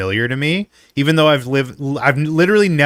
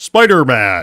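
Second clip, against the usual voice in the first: booming announcer voice, lower and louder; 4 semitones lower, 4 dB louder than usual. Imitating the Smash Melee announcer calling out a fighter: Smash Melee announcer voice. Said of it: "He's announcing".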